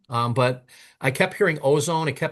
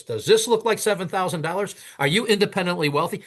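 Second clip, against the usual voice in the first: higher-pitched incredulous questions; exasperated scolding; 5 semitones higher than usual. Retold or imitated. Man turns the check around at the caller, exasperated scolding. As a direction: retell a sarcastic dressing-down.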